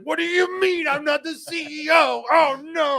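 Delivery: high, panicked disbelief; shocked Billy. Retold or imitated. Billy at the bank, learning he is not CEO, in high panic. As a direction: squeak it out as if the title was just stripped away. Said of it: "he went to the bank ... he was like".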